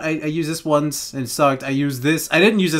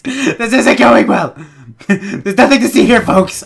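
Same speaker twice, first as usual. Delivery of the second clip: mock announcer; 6 semitones higher, 5 dB louder, slower than usual.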